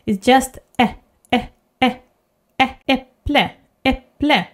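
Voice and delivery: äpple with a short relaxed eh; äpple, chin barely down. Shown as a demonstration. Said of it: "it's quite relaxed".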